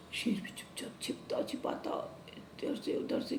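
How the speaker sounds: soft secretive whisper; storyteller whispering the sneaking lion. A narrator's reading. Lion sneaking after the cow.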